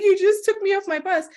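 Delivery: high, exasperated protest; arrested woman protesting to officer, high and indignant; indignant younger self. Retold or imitated. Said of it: "I'm like".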